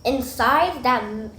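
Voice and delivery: talking while chewing; words through a mouthful of breakfast; mouth full. Real, not acted. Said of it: "don't talk with your mouth full".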